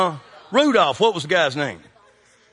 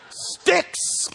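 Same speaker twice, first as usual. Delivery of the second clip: laughing whisper; 13 semitones higher than usual. Real, not acted. Punchline, laughing.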